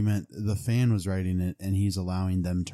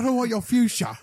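high, squeaky comic line; 13 semitones higher, 5 dB louder than usual. Acted. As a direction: squeak it out like a cartoon. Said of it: "just say that line".

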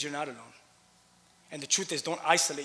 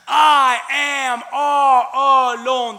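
slow, loud, high drawn-out wail; whiny wail; 9 semitones higher, 14 dB louder, much slower than usual. Retold or imitated. Preacher mocking Elijah's self-pity, a slow loud wail. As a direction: wail it out like a self-pitying prophet. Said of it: "And what does he say next?".

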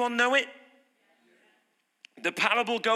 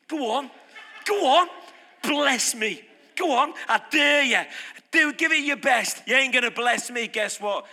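a cocky, half-serious taunt; taunting dare; 3 semitones higher than usual. Retold or imitated. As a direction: goad God like a bored skeptic. Mocking the lazy listener's dare.

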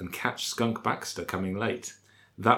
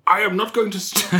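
laughing; 11 semitones higher, 4 dB louder than usual. Real, not acted. Cracks up mid-line.

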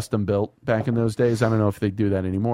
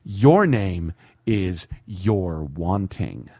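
hammed-up boss berating his team; movie tirade; 2 semitones higher than usual. Quoting the movie boss yelling at weak salesmen, hammed-up fury. Quoting Glengarry Glen Ross speech.

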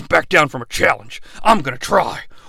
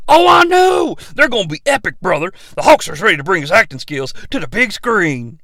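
Hulk Hogan. Acted. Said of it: "Hulk Hogan".

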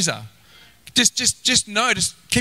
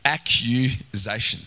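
drawn-out word; 6 semitones lower, slower than usual. Shown as a demonstration. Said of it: "I love this one".

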